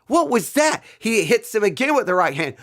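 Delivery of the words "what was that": incredulous high rising repeat; high incredulous question. Retold or imitated. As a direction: jump up high and rise at the end. Stunned reaction to a knockdown.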